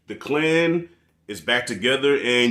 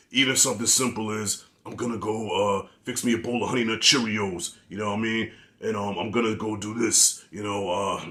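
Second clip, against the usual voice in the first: actor's bad rizza impression; 3 dB quieter than usual. Reviewer mocking how the rizza actor talks, bad robotic impression. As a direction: imitate a robotic, throat-straining bad rizza. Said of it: "it hurts my throat even doing it".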